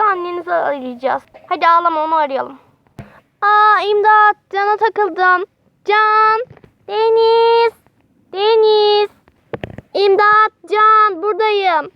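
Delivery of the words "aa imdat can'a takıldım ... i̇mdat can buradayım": put-on trapped kids yelling names; crying for help. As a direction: shout for rescue. Children trapped call for help.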